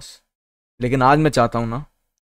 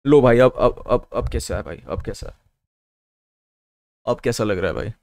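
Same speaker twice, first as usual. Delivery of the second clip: lightly lowered, put-on deep voice; 3 semitones lower than usual. Streamer checking his sound with viewers, deep voice. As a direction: keep it a little low for effect. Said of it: "आवाज़ deep नहीं रहती फिर".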